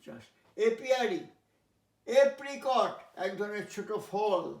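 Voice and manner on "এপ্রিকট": এপ্রিকট slow and higher; slow careful pronunciation. Shown as a demonstration. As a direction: stretch out এপ্রিকট. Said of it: "teacher drills word". (ধীরে এপ্রিকট উচ্চারণ)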